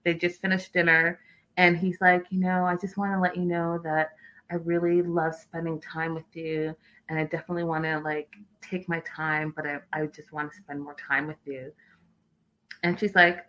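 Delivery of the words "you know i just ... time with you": retelling a tentative confession softly; hushed, hesitant retold sweet talk. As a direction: imitate a suitor's low-key, much softer plea. Retold awkward date confession.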